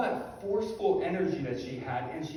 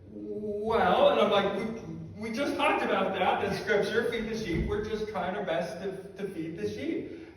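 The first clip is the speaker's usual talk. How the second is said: a touch higher and louder, trying to sound firm; forced firmness; 5 semitones higher, 4 dB louder than usual. Retold or imitated. Explaining the ministry to a forceful scholar, mock firm. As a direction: bluff some confidence. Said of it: "put on this forceful voice".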